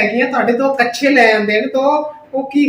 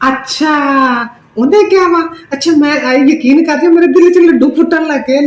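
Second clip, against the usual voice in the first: dramatic loud aunty; 2 semitones higher, 5 dB louder than usual. Acted. Aunty gushing loudly on phone.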